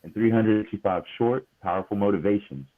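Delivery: measured book-blurb read; reading aloud. Acted. Host reads a book's description to listeners, measured read-aloud. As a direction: read the description out clearly, phrase by phrase.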